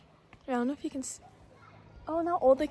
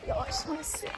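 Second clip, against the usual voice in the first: acting like a brat; 3 semitones higher, 5 dB quieter, faster than usual. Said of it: "I'm acting like a brat".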